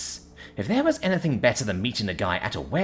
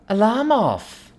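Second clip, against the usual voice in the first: loud command; 11 semitones higher, 5 dB louder, slower than usual. A narrator's reading. Commanding AI from bed.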